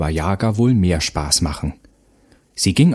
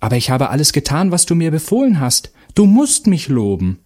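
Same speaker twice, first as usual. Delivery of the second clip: mother's voice; 7 semitones higher than usual. A narrator's reading. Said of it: "ließ ihr Schwert sinken und sagte".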